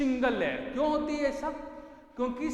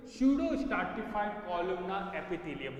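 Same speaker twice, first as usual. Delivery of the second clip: each word drawn out slowly for notes; teacher dictating term slowly; slow dictation; much slower than usual. Shown as a demonstration. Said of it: "lining किसकी होती है बेटा?".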